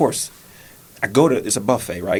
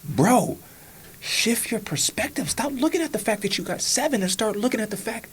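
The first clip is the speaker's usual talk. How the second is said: the mountain talking; 11 semitones higher than usual. Retold or imitated. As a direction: lift it high and lecture yourself. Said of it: "the mountain was showing me".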